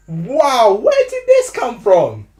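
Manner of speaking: loud excited Essex accent. Real, not acted. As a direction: Essex accent, shocked and thrilled. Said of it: "talk about it in an Essex accent".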